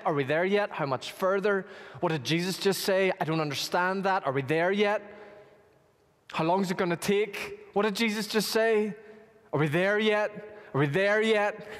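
put-on whiny kids. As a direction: pester like bored kids on a trip. Voicing whiny children on the road.

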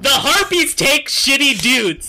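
creature voice. Acted. GM voicing harpy lore excitedly.

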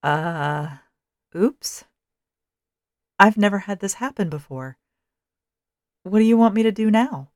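stammer, then panic climbs up. A narrator's reading. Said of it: "My companion stammered".

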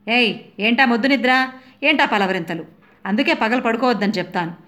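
a husband's scolding order, pitch climbing high; bossy husband. Retold or imitated. Husband waking his napping wife, bossy scolding. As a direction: nag her awake and demand tea. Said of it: "order వేసి".

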